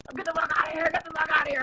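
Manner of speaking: panicked high shout to get out; scared yelling. Retold or imitated. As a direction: yell in fright to get away. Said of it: "like, legit scared".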